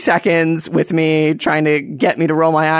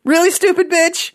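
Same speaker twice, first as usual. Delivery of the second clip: sarcastic retort; 14 semitones higher than usual. Acted. Comedian mocking ham and cleaver, high sarcastic sneer.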